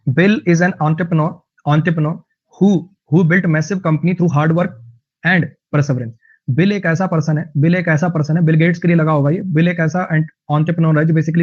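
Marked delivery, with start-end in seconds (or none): 0.1-6.1 very slow, word by word English reading; slow dictation reading. Shown as a demonstration. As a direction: read each word out clearly for learners. Reads example sentence slowly.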